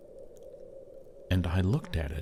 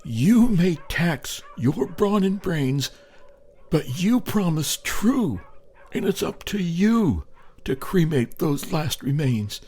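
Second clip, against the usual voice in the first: voice of the corpse; 10 semitones higher, 4 dB louder than usual. A narrator's reading. The corpse on the sleigh reminds him of the promise, eerie. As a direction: let the dead body speak, haunting. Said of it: "it seemed to say".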